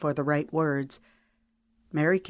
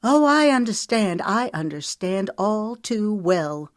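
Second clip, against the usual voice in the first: bitter retort; 5 semitones higher, 4 dB louder than usual. Acted.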